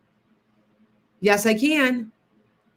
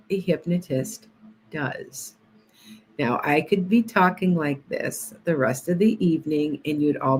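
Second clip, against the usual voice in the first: soothing hypnotist voice. Shown as a demonstration. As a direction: lull the viewers toward sleep. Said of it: "go back to my normal self".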